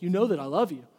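Peter, fed up, insisting; mildly aggravated. Retold or imitated. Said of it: "he finally gets aggravated".

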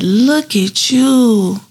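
high, long drawn-out admiring greeting; delighted greeting. Retold or imitated. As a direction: retell a proud, amazed hello, stretching it out. Retold joyful greeting after rehab.

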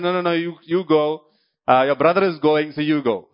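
ordinary talk, nothing marked

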